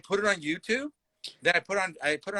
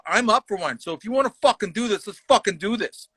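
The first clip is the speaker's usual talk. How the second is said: retold fighting challenge; 6 semitones higher than usual. Retells accepting a fight.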